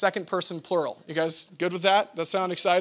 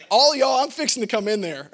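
mock Texan; 4 semitones higher, 6 dB louder than usual. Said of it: "get real Texan".

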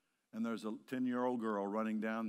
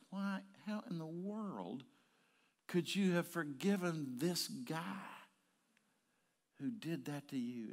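incredulous question; 6 semitones higher than usual. Retold or imitated. People asking Chris how he forgave, incredulous. Asker's disbelief voiced in story.

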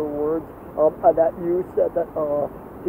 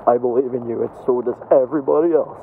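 sincere; 4 semitones lower than usual. Real, not acted. Sincere low closing encouragement.

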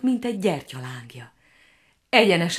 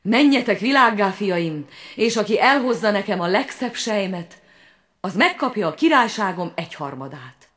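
king's command; 3 semitones higher than usual. Retold or imitated. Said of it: "király apánk így szólt".

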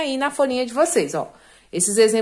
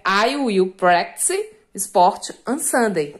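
slow dictation; 4 semitones lower, much slower than usual. Shown as a demonstration. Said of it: "teacher dictating example sentence".

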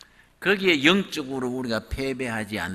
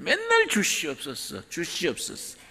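beggar's plea; 5 semitones higher than usual. Retold or imitated. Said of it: "걸베이 삼신 걸렸다".

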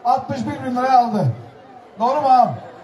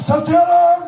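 rising auctioneer call, higher; 5 semitones higher, 4 dB louder, much slower than usual. Real, not acted. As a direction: push the final sale call upward. Mezatta son satış çağrısı. (yükselen mezatçı çağrısı)

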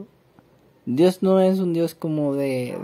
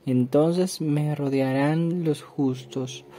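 steady psalm reading, slowing at the end; scripture reading. Acted. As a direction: read the verses then ease into calm. Rereads the psalm.

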